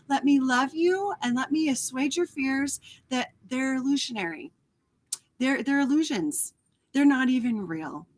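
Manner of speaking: cradle the fear away, gently; tender inner voice. Acted. Inner loving voice comforting her.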